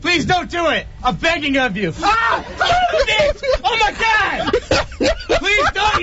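desperate pleading. Real, not acted. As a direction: beg them not to do it, half laughing. Hogtied man begging not shocked.

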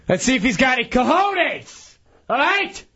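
riled-up challenge, pitch jumping at the end; yelling. Real, not acted. Ranting at whoever dirtied the car, yelling. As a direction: throw down a dare, worked up. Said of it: "Why are you yelling?".

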